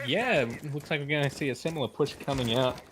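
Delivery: talking through hiccups; hiccuping between words. Real, not acted. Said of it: "I do have the hiccups right now".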